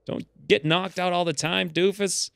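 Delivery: hammed-up angry dwarf; mock dwarf rant. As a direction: berate him like a cranky dwarf. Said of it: "I'm like".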